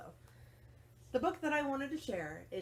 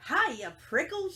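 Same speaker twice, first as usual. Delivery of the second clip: loud, high, slow teasing shout; jackrabbit shouting; 9 semitones higher, 7 dB louder than usual. Acted. Jackrabbit teases Hank while dashing past, loud and high. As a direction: tease him as you dash by. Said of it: "she shouted".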